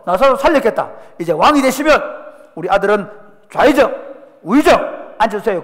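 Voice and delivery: angling for good posts for her sons; eager mother. Acted. Mother of James to Jesus, loud eager pleading.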